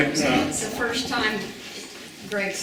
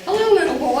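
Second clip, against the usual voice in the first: high, louder parrot squawk of "Hello"; 11 semitones higher, 7 dB louder, faster than usual. Retold or imitated. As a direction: answer like the parrot, pitched up. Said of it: "And the bird said".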